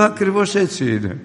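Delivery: high, emphatic affirmation; firm reply. Retold or imitated. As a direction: insist it is exactly so. Son answers firmly. (ο γιος απαντά σίγουρα στη μάνα του)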